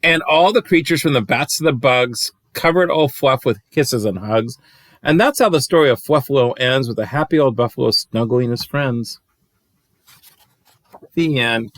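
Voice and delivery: put-on lilting read-aloud rhyme for kids; bouncy rhyming storyteller voice; storybook reading. A narrator's reading. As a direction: read it like a bedtime picture book. Reads picture book aloud.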